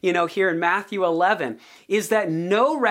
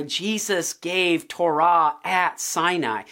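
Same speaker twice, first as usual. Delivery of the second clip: ordinary delivery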